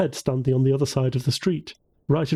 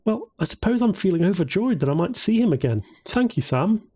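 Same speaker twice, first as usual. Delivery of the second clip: higher-pitched cheerful thanks; 7 semitones higher than usual. A narrator's reading. Woman to her friend Sam, cheerfully. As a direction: say it lifted, with upbeat cheer. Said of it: "she said cheerfully".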